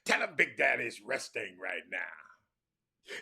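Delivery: slow, loud raspy whisper; slow theatrical stage whisper; Powell's whispered reply. Retold or imitated. Powell stage-whispers his answer down to the boy. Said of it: "That's how he talk".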